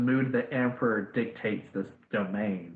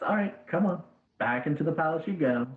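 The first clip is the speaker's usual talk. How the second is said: higher, commanding emperor beckoning his daughter home; imperious father's call; 6 semitones higher than usual. Acted. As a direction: call her back like a lordly father. GM voices Jade Emperor summoning daughter.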